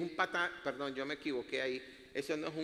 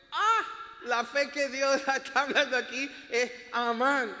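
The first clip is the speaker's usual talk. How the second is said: high, loud, amused outburst; laughing exclamation; 8 semitones higher, 5 dB louder than usual. Real, not acted. Preacher finding his surname in the word for faith, laughing loudly. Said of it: "Por eso me estoy riendo".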